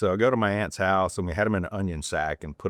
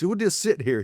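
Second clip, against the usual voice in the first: imitating cousin; 11 semitones higher than usual. Cousin voiced in boat.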